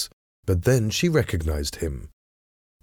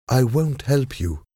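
higher-pitched, firm refusal; 6 semitones higher than usual. A narrator's reading. Lady refusing the French envoy's demand for help, firmly. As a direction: refuse him firmly, without shouting. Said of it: "she answered firmly".

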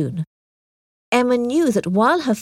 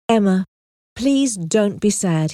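very kindly. Acted. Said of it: "he said very kindly".

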